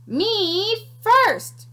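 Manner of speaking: high excited "me first"; eager cry. Acted. Piglet crying out to the sandwich voice, high and eager. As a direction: call out, racing ahead. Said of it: "cried Pinkerton".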